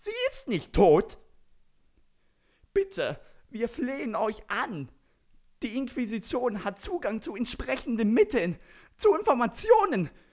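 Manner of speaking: very high, hectic, frantic, panicky babbling. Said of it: "Hektisch, panisch, äh, Gebrabbel".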